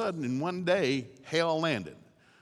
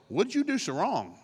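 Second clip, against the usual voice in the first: pointed, prying question; accusing friends; 5 semitones higher than usual. Acted. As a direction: needle him like a suspicious friend.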